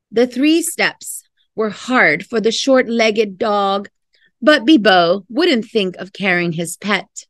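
lively storybook reading voice; expressive picture-book narration; reading to children. Acted. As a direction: read it like a bedtime story. Reads picture book aloud.

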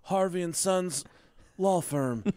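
fast, eager injury-lawyer ad read; lawyer commercial voice. Pretend. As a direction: pitch it like a cheesy TV lawyer. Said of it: "spot-on impression".

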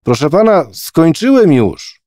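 put-on high, loud and drawn-out boy's call; an impatient boy calling out that he's done; impatient shout. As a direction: shout it slowly so he hears from far. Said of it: "krzyknął zniecierpliwiony".

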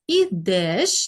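"ідеш" with a clear stressed е. Shown as a demonstration. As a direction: stress the ending of "ідеш", sounding е distinctly. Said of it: "чітко чуємо звук".

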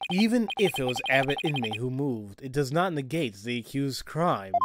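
lightly voiced stern prosecutor; composed prosecutor. Prosecutor dismissing the defence's point, composed and formal.

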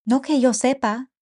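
anxious mother pleading for help; worried mother. Acted.

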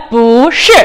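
不 rising before a falling 是; rising bú, then falling shì in 不是; second-tone 不. Shown as a demonstration. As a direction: say 不是 with 不 lifted to second tone. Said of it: "이성으로 바뀐다".

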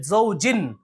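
زوجن ending on a clear n; unchanged tanween n. Shown as a demonstration. Teacher showing what is not recited, زوجن ending in n. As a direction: close زوجن on n, with no m. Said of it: "وہ نہیں پڑھ رہے ہیں".

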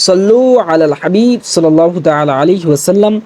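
devotional call-and-repeat recitation; recited prayer. Shown as a demonstration. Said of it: "সবাই আমার সাথে সাথে বলার চেষ্টা করুন".

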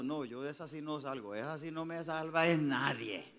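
a playful imitation of a hopeless churchgoer; jocose despairing believer. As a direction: mimic a doubter, half joking. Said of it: "se lo hago así jocosamente".

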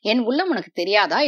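a lover's gentle, loving plea; a touch of tenderness in the voice; tender. Acted. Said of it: "அன்பு ததும்பிய குரலில்".

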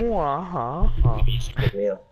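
breathy, drawn-out stunned whisper. Real, not acted. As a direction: breathe it out in disbelief. Stunned at the game.

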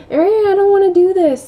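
high, loud imitated toddler whine; whining toddler. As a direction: whine like a protesting little kid. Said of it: "not crying, but, like, whining".

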